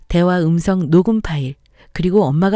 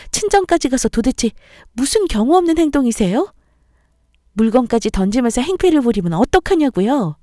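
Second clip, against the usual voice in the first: raised, pressing accusation; angry confrontation; 5 semitones higher than usual. Acted. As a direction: demand an answer, voice climbing. Daughter-in-law confronting mother-in-law. (시어머니에게 따지는 며느리)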